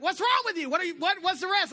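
high, loud mock exasperation; wife's puzzled question. Wife demanding why he stopped talking, high and loud. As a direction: play the baffled wife catching him staring. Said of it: "And she'd be like".

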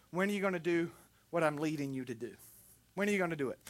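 low, soft retold question; gentle divine prompting. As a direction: voice a quiet inner urging from God. God's quiet prompting, retold.

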